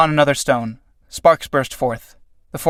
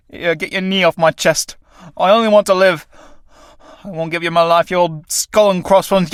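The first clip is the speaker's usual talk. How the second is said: strained, raised protest; desperate struggle; 3 semitones higher than usual. Acted. Tramp fighting death's knee off chest, strained defiance. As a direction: plead and fight at once.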